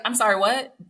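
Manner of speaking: lightly indignant wife questioning; mock indignant wife. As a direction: grill him about being too nice. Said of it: "I really wish I could just be like".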